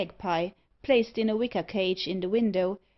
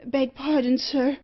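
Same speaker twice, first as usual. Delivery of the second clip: raised, slightly higher voice; crying out apology; 4 semitones higher, 5 dB louder than usual. A narrator's reading. Assistant apologises to the burnt gentleman, crying out. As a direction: blurt an apology to a customer. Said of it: "cried Watts".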